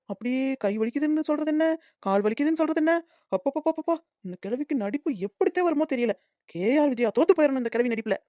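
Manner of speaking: soft bitter muttering; grumbling aside. Acted. Daughter-in-law muttering about the mother-in-law's acting, soft. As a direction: complain under your breath.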